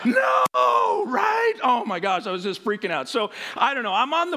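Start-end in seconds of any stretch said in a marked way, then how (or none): 0.0-1.0 flat refusal. Retold or imitated. Kid refusing to jump.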